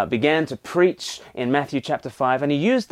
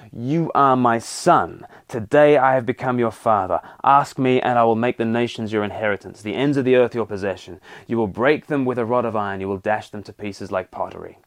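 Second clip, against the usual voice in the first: steady, weighty reading of God's promise; solemn scripture reading; 2 semitones lower than usual. Acted. Preacher reading God's words to the king, solemn reading voice. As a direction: read it like a royal decree.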